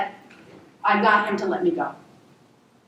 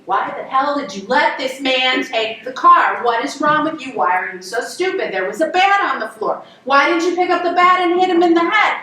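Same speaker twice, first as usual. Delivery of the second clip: imitated family yelling; 4 semitones higher than usual. Family at dinner table berating the storyteller, retold yelling. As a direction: pile up exasperated questions, peaking on the last. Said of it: "they are yelling at me".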